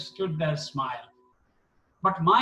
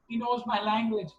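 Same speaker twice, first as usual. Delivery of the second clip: higher, thrilled, but only a mild mock scream; overjoyed exclaim; 5 semitones higher than usual. Quoting a delighted Baba, higher and thrilled.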